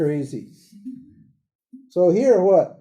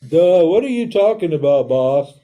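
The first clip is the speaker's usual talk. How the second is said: louder, dim-witted confused friend; dumbfounded Arjuna; 6 dB louder than usual. Retold or imitated. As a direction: play the baffled student who's lost. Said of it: "Arjuna's like".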